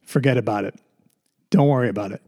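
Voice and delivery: passive aggressive. Retold or imitated. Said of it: "I got passive aggressive".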